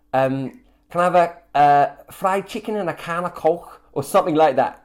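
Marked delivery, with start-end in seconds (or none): 0.9-3.8 put-on a light stab at a Liverpool Scouse accent. The speaker obliges Halima's request with a lightly done Scouse accent. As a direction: toss off a quick half-hearted Scouse accent, Liverpool vowels. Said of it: "a phrase that gets you into the accent".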